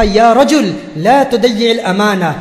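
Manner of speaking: slow, drawn-out Arabic plea; slowly intoned entreaty; imploring appeal. Retold or imitated. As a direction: stretch out the solemn appeal. Wife's plea quoted in Arabic.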